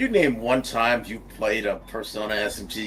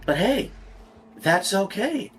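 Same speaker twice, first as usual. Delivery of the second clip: sarcastic; 9 semitones higher than usual. Real, not acted. Sarcastic shrug about bad game.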